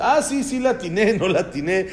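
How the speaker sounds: put-on gleeful kids checking their answer; excited kids guessing. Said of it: "y dice". (niños emocionados adivinando, riendo)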